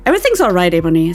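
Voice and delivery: sensitive. A narrator's reading. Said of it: "all sensitive".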